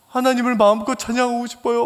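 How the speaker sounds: high-pitched imitation of crying; mock wailing. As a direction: plead as a weeping caller would. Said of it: "엉엉 우는 거예요".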